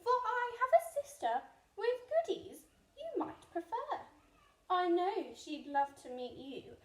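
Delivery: high, loud, eager duck. Acted. The duck tempting the rat, high and loud. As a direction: pitch it up like a bright little duck. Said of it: "quacked the duck".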